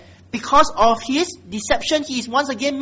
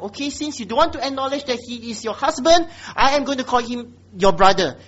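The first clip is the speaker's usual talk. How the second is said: pointed sarcasm, louder on the brother; sarcastic jab, building louder to the end; 3 semitones higher, 4 dB louder than usual. Acted. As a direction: needle her with mock compliance. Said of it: "Being given this kind of sarcasm".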